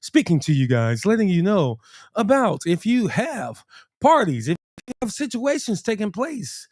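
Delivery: announcer-style promo pitch; business voice. Pretend. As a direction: sell it like a radio advert, playful. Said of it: "Once again, I am using my business voice".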